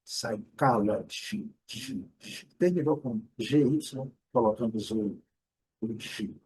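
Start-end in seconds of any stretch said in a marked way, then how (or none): 0.0-1.5 very slow "Psychology" ending in a clear "dji"; D imaginário. Shown as a demonstration. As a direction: draw out "Psychology", landing on "dji". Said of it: "colocar o D no imaginário". ("Psychology" bem devagar, com "dji" no fim)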